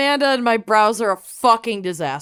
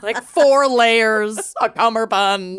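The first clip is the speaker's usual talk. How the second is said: laughing; 3 semitones higher than usual. Real, not acted. Joking about swimsuits.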